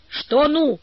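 high, rousing storybook cry; spirited shout. A narrator's reading. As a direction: urge them on with a lifted voice. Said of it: "крикнул Карик".

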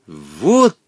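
a touch of glee, slow; lightly played delight; overjoyed. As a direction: cheer at a clever trick. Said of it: "обрадовался Волька".

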